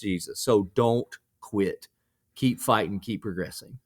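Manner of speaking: mild sermon delivery in a conversational voice; lightly voiced preacher. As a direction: preach it gently, like a pastor encouraging a guest. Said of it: "Can I play preacher real quick?".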